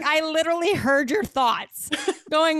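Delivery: high, excited disbelief; amazed retelling. Retold or imitated. Friend retelling husband reading her mind, high and amazed. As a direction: squeal it out in amazement.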